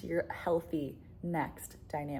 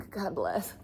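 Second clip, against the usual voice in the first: whispered. Real, not acted. Whispered blessing.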